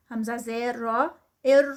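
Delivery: ار said with a light, thin را. Shown as a demonstration. Teacher showing students a light را in ار. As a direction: keep the را in ار light, not full-mouthed. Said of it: "را یہاں پر light ہوگی".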